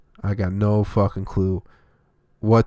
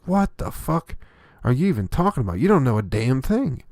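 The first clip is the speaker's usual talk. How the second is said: high incredulous scoff, then a dismissive put-down; exasperated retort; 4 semitones higher than usual. Retold or imitated. Comic scolding twenty-year-olds about their opinions, incredulous and higher. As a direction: cut the kid off, disbelieving and fed up.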